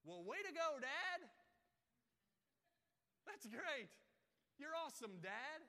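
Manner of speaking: put-on high, loud childlike cheer; mock kid cheering dad. Child cheering his dad, high and loud. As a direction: gush like an excited kid.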